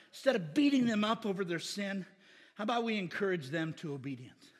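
ordinary delivery

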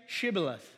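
Shibboleth said with an opening "sh"; correct pronunciation. Shown as a demonstration. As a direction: say Shibboleth clearly, starting on "sh". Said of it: "then they would say".

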